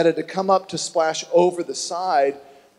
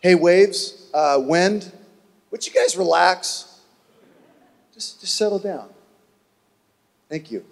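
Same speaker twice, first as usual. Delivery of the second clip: casual. Pretend. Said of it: "Or was it ... casual".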